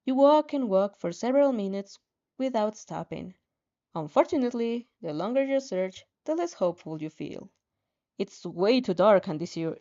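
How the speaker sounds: steady, earnest reading aloud; calm second-person story reading; story narration. A narrator's reading. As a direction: read it like an audiobook chapter. Reads fanfic narration.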